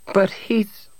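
high, breathy half-whispered protest; startled objection, stopped short; cut-off protest. A narrator's reading. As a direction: start high and break off abruptly. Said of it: "stopped abruptly when her son nudged her".

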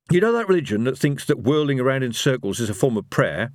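lightly voiced, slightly high character; a hint of hesitant explaining; Rincewind, explaining his faith. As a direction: lead gently into a dubious explanation.

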